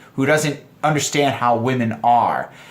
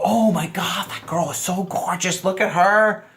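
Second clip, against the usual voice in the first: raised-pitch mock admiration; gushing woman; 4 semitones higher than usual. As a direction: imitate a woman fawning over another girl. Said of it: "complimenting another girl".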